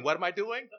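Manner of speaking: put-on the grown child laughs off the question; evasive child. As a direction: toss it back with a chuckle. Child dodges with question back.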